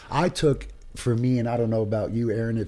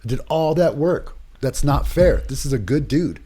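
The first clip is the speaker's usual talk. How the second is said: anguished protest; 4 semitones higher, 4 dB louder than usual. Retold or imitated. Retelling crying over lost patient.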